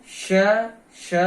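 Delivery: श said with a slight whistle; whistling sha demo. Shown as a demonstration. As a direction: let the श whistle a little. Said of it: "थोड़ा सीटी की आवाज भी आती है".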